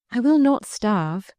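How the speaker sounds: slow, breathless refusal; panting. Acted. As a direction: push out each word winded.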